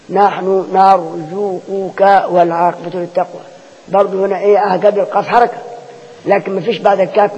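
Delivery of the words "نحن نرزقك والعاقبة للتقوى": slow recitation, نرزقك as narzuquka; no assimilation. Shown as a demonstration. Teacher reciting the exception, نرزقك slowly with qaf unmerged. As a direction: draw out نرزقك, qaf and kaf each sounded. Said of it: "برضو امتنع الإدغام".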